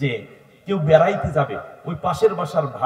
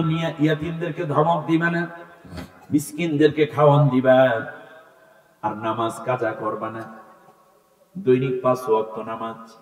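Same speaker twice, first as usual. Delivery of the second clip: intoned preaching. Real, not acted. Preacher relaying God's commands on orphans and prayer, intoned. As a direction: intone each phrase and stretch its ending.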